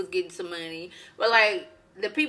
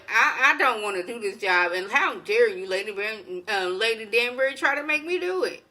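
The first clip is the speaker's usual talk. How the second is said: indignant refusal; 3 dB louder than usual. Retold or imitated. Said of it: "Miss Mondrian, like".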